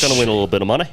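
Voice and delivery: botched British turning Liverpudlian accent; put-on Liverpool-style British accent; a famous Liverpool singer. Shown as a demonstration. Trying British for friends, accidental Liverpudlian accent. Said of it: "he's kinda turned to a famous Liverpool singer".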